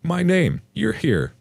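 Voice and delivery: high-pitched bubbly greeting. A narrator's reading. Ex's mom greeting the narrator, bubbly. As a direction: chirp it high, tipsy and delighted. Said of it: "She's very bubbly and says".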